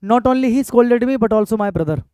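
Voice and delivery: very slow, each word drawn out; unhurried board-writing read; slow dictation. Shown as a demonstration. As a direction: read it out slowly for students to copy. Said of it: "sentence ठीक है".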